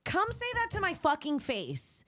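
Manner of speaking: yelled high and hard, picking a fight; raging challenge shouted across the room; furious yelling. Retold or imitated. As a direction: scream it at her, come at me. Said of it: "And I go".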